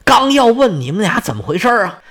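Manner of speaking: ordinary delivery, nothing marked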